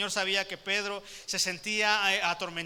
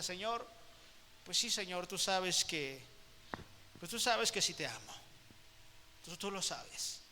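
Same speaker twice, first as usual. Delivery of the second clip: downcast reply; 9 dB quieter than usual. Acted. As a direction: mumble it with eyes on the ground. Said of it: "con la mirada agachada". (respuesta cabizbaja, mucho más suave)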